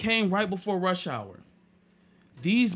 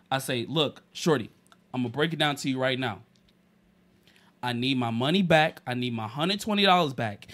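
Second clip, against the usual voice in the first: low menacing calm; 3 semitones lower than usual. Retold or imitated. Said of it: "I'm like".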